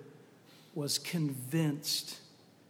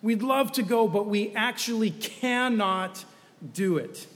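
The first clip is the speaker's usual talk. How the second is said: higher and louder, slowing on "cannot"; emphatic refusal; 4 semitones higher, 4 dB louder than usual. Acted. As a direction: lean hard and slowly on "cannot". Spies' refusal acted out.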